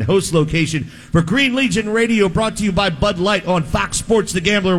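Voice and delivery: upbeat radio sponsor read. Acted. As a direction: sell it like a live radio spot.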